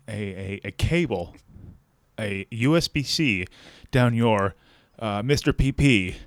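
halting, formal customer-service disclaimer; lightly played earnest call center worker; serious voice. Phone worker disclaiming company responsibility to a customer, serious voice. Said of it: "I get serious voice".

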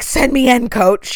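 mock eager weatherman. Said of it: "they're like".

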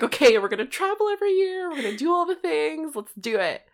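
high, loud pep-talk cheer; rally everyone, all fired up; excited. Retold or imitated. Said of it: "we're like".

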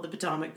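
"Potomac" said as POT-oh-mack; mispronounced Potomac. Shown as a demonstration. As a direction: stress the first syllable of "Potomac". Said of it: "if you're like me, I called".

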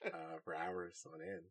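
soft, droning monotone bore; Colin Robinson impression. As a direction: drone on like an energy vampire. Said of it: "Colin Robinson".

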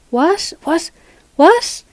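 high, rising calls down a bad line; puzzled caller straining to hear; can't hear. A narrator's reading. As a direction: repeat it sharply, pitch shooting up.

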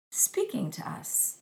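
hushed, breathy whisper on speaking to us; whispered like a secret. Real, not acted. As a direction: drop to a reverent whisper on speaking to us. Divine speaking, hushed aside.

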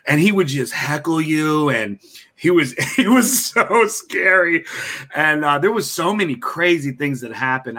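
ordinary talk

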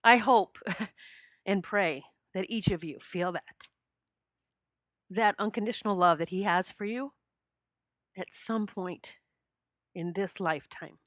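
choked-up heartfelt wish, broken by pauses; real emotion, halting and softening towards the end; hope and pray through tears; tearful. Real, not acted. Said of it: "it always brings me to tears".

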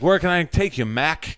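New York cabbie asking where to; New York accent. Retold or imitated. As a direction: tough New York taxi driver accent. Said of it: "'Cause that's how they talk in New York".

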